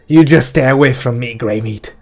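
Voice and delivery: loud warning with a touch of nerves; nervous defiance. A narrator's reading. Detta warns off the advancing gunslinger, nervously defiant. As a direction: bluster over a quiver of nerves. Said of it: "a quiver of nerves in her voice".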